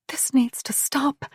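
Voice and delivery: urgent slow whisper; anxious whispered plea. Acted. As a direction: breathe it, barely voiced. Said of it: "Mare heard Camille whisper".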